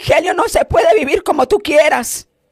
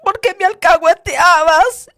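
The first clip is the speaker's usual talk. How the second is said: put-on accusing children; 6 semitones higher, 4 dB louder than usual. Children accusing their parents.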